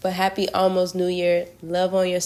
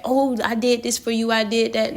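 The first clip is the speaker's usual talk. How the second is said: lightly acted bragging, pitched higher; mock boasting; 4 semitones higher than usual. Partner listing favors to a loved one, mock bragging. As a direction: imitate someone showing off their good deeds. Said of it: "He ain't have to boast and brag".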